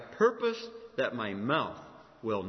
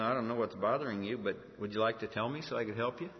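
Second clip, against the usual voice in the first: calm, low-key offer of help; kind offer; 3 semitones lower than usual. Shown as a demonstration. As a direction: model a gentle reply to an angry person. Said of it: "You could say something like this".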